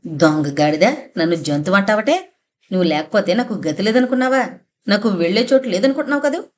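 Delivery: rapid angry yelling at his wife; husband shouting. Acted. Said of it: "గొంతు హెచ్చించి స్వామినాథయ్య అరిచి అరిచి".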